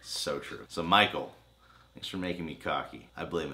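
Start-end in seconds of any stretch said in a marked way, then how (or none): 0.0-0.6 unvoiced whisper of agreement. Real, not acted. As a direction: breathe it like a private aside.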